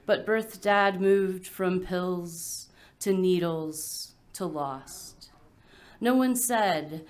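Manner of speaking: measured poem delivery with pauses between phrases; poetry reading. Acted. Adopted poet reading about a missing baby shower, measured recital. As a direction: let each image land, phrase by phrase.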